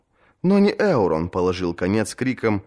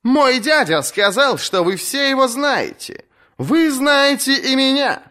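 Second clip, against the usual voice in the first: put-on defiant young woman. Asha to the captains about her uncle, high mocking voice. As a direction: rouse the crowd while mocking the uncle.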